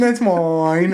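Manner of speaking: drawn-out mock British accent; Tom Holland. Host repeating the actor's line, exaggerated British accent. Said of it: "I don't know how his accent is".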